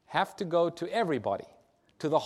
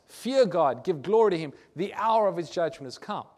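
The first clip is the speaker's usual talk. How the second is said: louder proclamation, moderately raised; 4 dB louder than usual. Acted. Preacher quoting the early Advent message to the congregation, loudly proclaimed. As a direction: proclaim it with a raised voice, easing toward the end. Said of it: "proclaimed with a loud voice".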